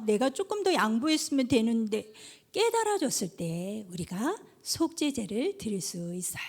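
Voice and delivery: ordinary talk, nothing marked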